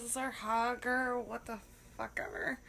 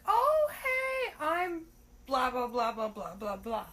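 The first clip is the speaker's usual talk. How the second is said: mock date greeting; slower than usual. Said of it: "they're like".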